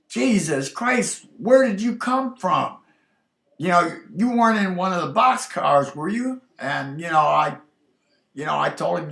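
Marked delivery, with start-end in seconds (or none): 0.1-6.4 high, loud startled shout; yelling out. Retold or imitated. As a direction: call out in shock across the tracks. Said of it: "he just yelled out".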